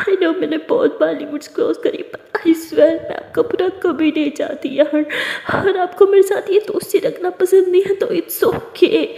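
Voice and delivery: tearful, breaking pleading; sobbing plea. Acted. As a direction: cry and beg her friend not to turn away. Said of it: "तारा ऐसे कह के बहुत रोती है". (रोते हुए गिड़गिड़ाना)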